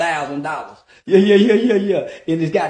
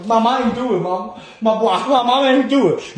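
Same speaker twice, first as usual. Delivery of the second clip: fake crying plea; 2 semitones higher, 5 dB louder than usual. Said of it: "I put the crying".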